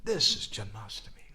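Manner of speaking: high, elated exclamations; ecstatic. Retold or imitated. Devotees gathered round in joy, crying out ecstatically. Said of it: "they all became ecstatic".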